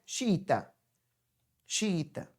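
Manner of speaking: "xiita" as xi-ta, both I's in one sound; joined pronunciation. Shown as a demonstration. Teacher confirming to the class, "xiita" repeated with the I's merged. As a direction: repeat "xiita" without a break between vowels. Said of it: "Eu digo xiita".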